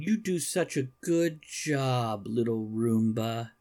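slowly, as if praising a pet; mild doting praise. Acted. Man kneeling over his Roomba, slow doting praise. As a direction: lay on gentle encouragement, drawn out.

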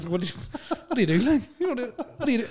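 shouting comedian. Retold or imitated.

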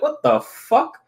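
high, startled what the fuck; shocked. Retold or imitated. Reacting to weird robot call.

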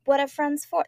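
bad Boston accent; a clumsy stab at a Boston accent. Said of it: "it came out in a really terrible Boston accent".

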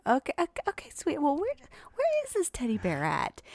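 high, forced-calm questioning; alarmed calm. Retold or imitated. Dad retelling asking his son, high and nervously calm. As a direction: keep it light while panicking inside. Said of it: "And I'm like".

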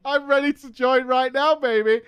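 hammed-up eager raider ready to go; mock hype. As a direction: ham up a cocky gamer. Mocking his eager younger self.

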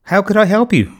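put-on high, puzzled girl's question; lightly voiced quizzical girl. A narrator's reading. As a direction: ask it wondering, quizzically. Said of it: "said Hannah quizzically".

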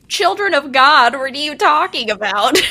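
loud, scoffing disbelief; mock incredulous. Mock quote of her own retort.

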